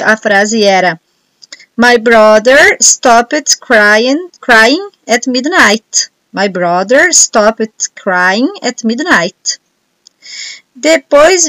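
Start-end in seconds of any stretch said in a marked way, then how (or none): 1.8-9.6 very slow, word-by-word dictation read. Shown as a demonstration. Teacher dictating the sentence to students, very slowly. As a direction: dictate it slowly so everyone can write.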